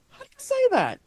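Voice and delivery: very high, teasing question; challenging visitors. Retold or imitated. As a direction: challenge them in a high-pitched voice. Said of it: "look at people and go".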